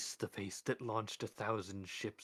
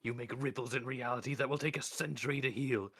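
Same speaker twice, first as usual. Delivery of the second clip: rising, louder list of grievances; building anger; 4 semitones higher, 4 dB louder than usual. Acted. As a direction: build the rebuke line by line. Death's building rebuke.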